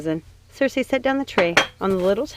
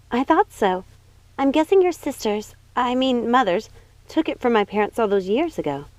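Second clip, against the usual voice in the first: a higher, bright-eyed princess voice; Snow White, light and eager; 5 semitones higher than usual. Acted. Snow White reassuring her cousin, higher princess voice. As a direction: lift the voice for young Snow White.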